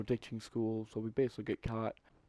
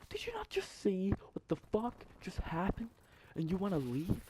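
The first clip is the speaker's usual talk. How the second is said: whispered disbelief; 8 semitones higher than usual. Retold or imitated. Retold hushed disbelief to friend.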